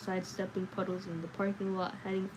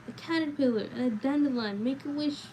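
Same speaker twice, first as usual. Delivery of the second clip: put-on excited child; 5 semitones higher, 3 dB louder than usual. A narrator's reading. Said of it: "shouting at all the wonders".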